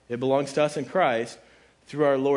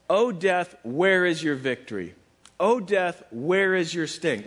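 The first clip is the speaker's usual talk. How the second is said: higher, louder drawn-out taunt; trash talk; 4 semitones higher, 4 dB louder than usual. Acted. Preacher quoting Paul's taunt to death, trash talk. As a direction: throw out a ringing challenge. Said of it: "here's where he gets the trash talk".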